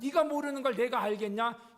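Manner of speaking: imitating a cold, loud rebuff; cold retort. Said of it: "이렇게 차갑게 딱 내뱉으시면서".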